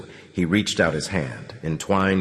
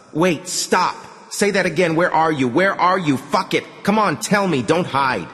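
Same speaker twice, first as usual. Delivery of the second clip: high, insistent calling; raised, agitated questioning; urgent demand; 10 semitones higher than usual. Acted. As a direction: press a hidden speaker to answer. Urgent search for hidden speaker.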